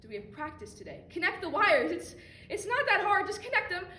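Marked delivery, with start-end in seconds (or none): 1.1-3.9 louder and higher, exasperated insistence; losing patience with herself; frustrated. Acted. Scolding herself over the wires, rising exasperation.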